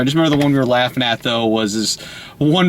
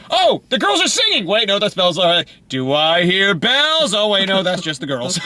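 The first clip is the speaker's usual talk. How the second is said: confused movie characters; 2 semitones higher than usual. Retold or imitated.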